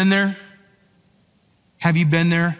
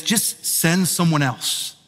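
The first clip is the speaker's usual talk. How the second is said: flat refusal; slower than usual. Retold or imitated. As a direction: mutter it like you've given up arguing. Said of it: "Moses just flatly says".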